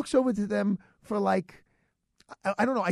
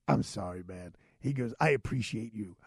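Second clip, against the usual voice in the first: apologetic cop; 9 semitones lower, 4 dB quieter than usual. Retold or imitated. The officer apologizing to him, in a lower voice.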